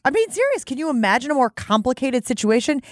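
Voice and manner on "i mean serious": "serious" stretched and raised; higher, emphatic "serious". Acted. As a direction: lean on "serious" up high. Repeat, much higher, drawn out.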